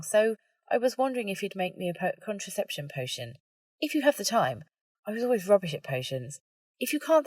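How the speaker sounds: lightly voiced nervous young woman asking a friend for help; nervous Ginny.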